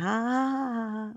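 high, drawn-out fake laugh; uncomfortable laugh. Woman humoring a stranger's joke, uncomfortable fake laugh. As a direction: force out an awkward high "haaa". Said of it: "the uncomfortable laugh".

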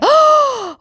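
scharfes, hohes Einatmen vor Schreck; plötzlich erschrocken nach Luft schnappen; erschrockenes Keuchen. Real, not acted. Hornisse fliegt im Zimmer. (erschrockenes Keuchen wegen der Hornisse)

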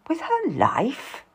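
slow, sceptical echo with rising LIFE; questioning echo. A narrator's reading. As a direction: query "life" with a high swooping rise. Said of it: "Dorothy asks".

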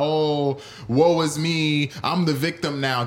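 slow, drawn-out woe-is-me whine, mocking; mock self-pity. Streamer mocking a fighter who plays the victim, mock self-pity. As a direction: imitate a Karen playing victim, drawing it out. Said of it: "He's pulling the Karen right now".

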